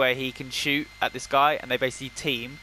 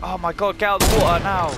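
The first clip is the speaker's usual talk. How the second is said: urgent shout; 5 semitones higher, 6 dB louder than usual. Real, not acted. Urgent in-game call.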